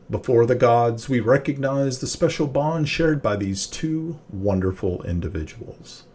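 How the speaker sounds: measured, mildly formal priest's address; lightly voiced wedding officiant, ceremonious; professional officiant. Priest welcoming guests to a wedding, professional with a hint of booming. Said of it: "very professional and booming voice".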